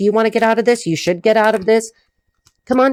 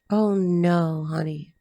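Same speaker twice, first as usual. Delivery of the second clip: sympathetic; 3 dB quieter, much slower than usual. Real, not acted. Consoles the sad man over loss.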